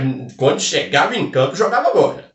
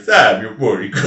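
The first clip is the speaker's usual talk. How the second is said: laughing; 3 semitones lower than usual. Real, not acted. Laughing through the line.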